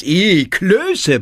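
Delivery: put-on high, loud childish yell of disgust; a small girl yelling about dumplings. A narrator's reading. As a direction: bawl it like a little girl refusing food. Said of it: "brüllt Lilli".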